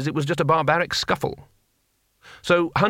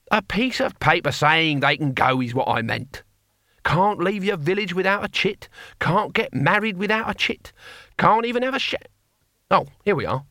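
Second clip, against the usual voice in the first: put-on irritated old barbarian, climbing higher until cut short; Cohen; 6 semitones higher than usual. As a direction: list grievances with mounting pitch, then drop back. Narrator voices Cohen the barbarian.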